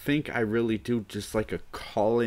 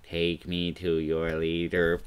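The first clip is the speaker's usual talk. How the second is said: slow, deliberate alien voice; 3 semitones lower, slower than usual. Pretend. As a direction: speak like a visiting alien. Alien arrival bit.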